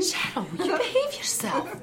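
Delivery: giggling through mock outrage; laughing tease. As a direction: scold her friend while laughing. Friends joke and laugh.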